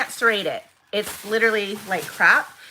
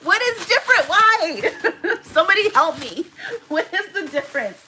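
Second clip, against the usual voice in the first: exasperated; 10 semitones higher, 4 dB louder than usual. Real, not acted. Ranting about identical bubble wrap.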